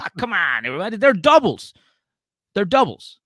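high, loud mock pleading; exaggerated imitation of a drunk's protest; pleading insistence. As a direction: beg the whole group in disbelief. Retold drunk man pleading for drinks.

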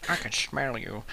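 echoed creature voice, slightly slurred; creepy creature voice. Acted. Co-host echoing the sewer creature, put-on creepy voice.

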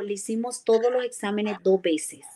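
hushed doctor, breathed out with no voice; whispered doctor. Retold or imitated. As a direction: whisper the doctor's news like a secret. Doctor's words quoted softly. (susurrando como el médico)

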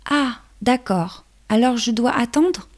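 high little ladybug voice; small hesitant ladybug. Acted. Ladybug answers.

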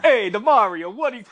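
put-on laughing, heavy Brooklyn accent; tough-guy Brooklyn accent, hammed up. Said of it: "they have the heavy Brooklyn accents".

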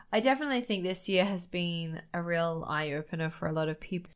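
talking through hiccups; hiccuping between words. Real, not acted. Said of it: "I'm sorry, I have hiccups".

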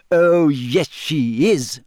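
gleeful, emphatic contradiction; happily. A narrator's reading. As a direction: crow it happily, starting high and loud. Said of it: "said Hermione happily".

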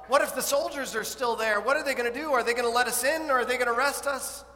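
imagine fearing the soldiers; anxious women's worries. Pretend. Women imagining fears at tomb.

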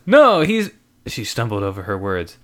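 high, loud flustered woman. Acted. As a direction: caught out, stumbling over words. Lizzie voiced, flustered.

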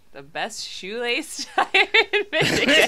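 put-on high, laughing Southern accent. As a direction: slip into a playful Southern accent, giggling. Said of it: "doing a southern accent".

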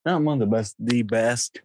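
THE best, corrected with emphasis; stress on THE. Real, not acted. Co-host upgrading his praise of the title reign, stress on THE. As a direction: lift NOT, then land on THE best.

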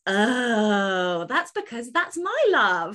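gushing excitement. Retold or imitated. Author recalling reading a love story, high gushing excitement. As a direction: gush like a smitten fan. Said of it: "I was like".

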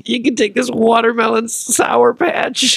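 high, loud, slow rage; hammed-up slow fury; mock furious. Mock breakup, throwing back gifts.

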